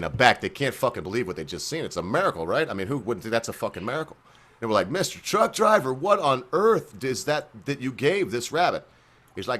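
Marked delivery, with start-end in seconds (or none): 4.9-8.9 higher, slowing astonished question; slightly hammed-up wonder; awestruck hippie. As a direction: ask it higher, drawing out the end. Hippies' awed question in joke.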